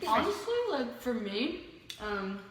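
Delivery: talking with a mouthful; chewing goldfish mid-sentence; chewing while talking. Real, not acted. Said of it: "sorry, I'm chewing the goldfish".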